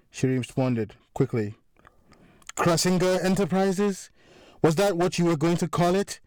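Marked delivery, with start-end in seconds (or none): 2.6-6.2 higher, mocking jab at a rival's company name; sarcastic. A narrator's reading. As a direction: sneer the question. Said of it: "Mike continued sarcastically".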